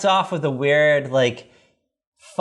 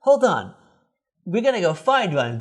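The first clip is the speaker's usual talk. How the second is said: put-on higher, know-it-all teen voice; Greg voiced; 7 semitones higher than usual. Podcaster voicing Greg explaining the phone, higher and cocky. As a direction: explain the wires like a cocky big brother. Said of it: "and he's like".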